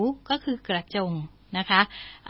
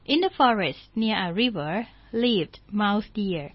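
slow story reading; much slower than usual. Shown as a demonstration. English story read slowly.

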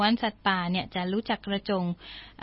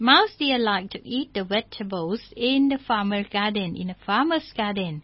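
slow story reading; much slower than usual. Shown as a demonstration. English story read slowly.

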